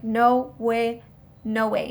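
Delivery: loud, flat-out no; firm refusal. Retold or imitated. Defendant refusing jail to his lawyer, loud refusal. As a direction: shut it down loudly.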